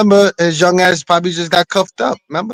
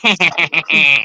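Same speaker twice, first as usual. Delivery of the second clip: retold witch cackle. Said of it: "Marcy with the cackle".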